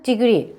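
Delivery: degree with the first stress marked clearly. Shown as a demonstration. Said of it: "강세 넣으시고".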